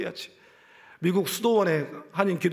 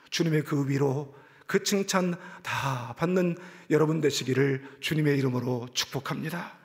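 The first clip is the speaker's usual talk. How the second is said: normal talking voice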